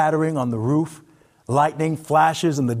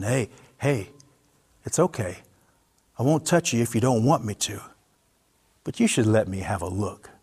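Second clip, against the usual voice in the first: gentle reassurance; 4 semitones lower than usual. Acted. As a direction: settle a frightened stranger. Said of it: "lifts his hands higher in the air in submission".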